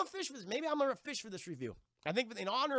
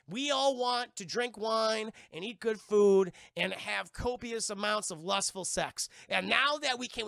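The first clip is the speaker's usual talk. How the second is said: higher, louder captain's rant; ranting pirate captain; 3 semitones higher, 3 dB louder than usual. Acted. Barbossa lecturing his cursed crew, a raised loud rant. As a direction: bellow at the crew to get the point across.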